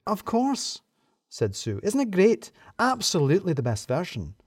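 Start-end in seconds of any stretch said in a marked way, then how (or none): 0.1-0.8 excitable. A narrator's reading. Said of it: "Sue seemed a lot more excitable". 1.8-4.3 excitable. A narrator's reading. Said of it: "Sue seemed a lot more excitable".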